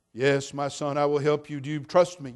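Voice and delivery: calm, even heavenly voice; a hint of a calm voice from heaven; lightly voiced God. God answers the man calmly, lightly voiced.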